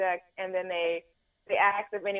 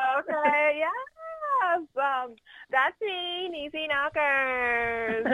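Niecy Knockers; 6 semitones higher, slower than usual. Shown as a demonstration. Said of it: "I'm the voice of Niecy Knockers".

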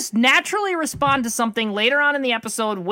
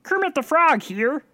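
slow, lightly voiced frog puppet; a hint of the Muppet frog; Kermit the Frog; 4 semitones higher, slower than usual. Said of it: "Do Kermit".

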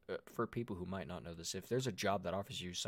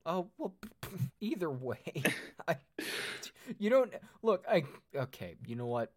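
flustered; 8 semitones higher, 4 dB louder than usual. Real, not acted. Flustered reaction to an accent.

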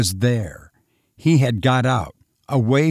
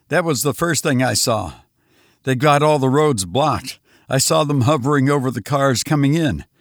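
frantic survivor Lois; 3 semitones higher than usual. Acted. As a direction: rush the story out, still haunted. Lois recounts the invasion.

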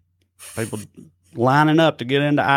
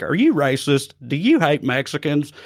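over eager infomercial. Retold or imitated. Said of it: "that's the way he delivers that".

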